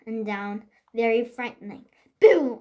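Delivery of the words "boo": loud sudden boo. Acted. Girl trying to frighten Cinderella, loud boo. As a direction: jump out and boo them. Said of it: "I said".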